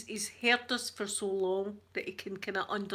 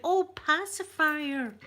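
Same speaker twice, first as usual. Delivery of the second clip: high, louder, slow drawn-out Oh, pacifier; sudden realisation; 7 semitones higher, 4 dB louder, slower than usual. Retold or imitated. Shop staff finally understanding the dad, slow and high with realisation. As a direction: act out the penny dropping, stretching it. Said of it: "And they went".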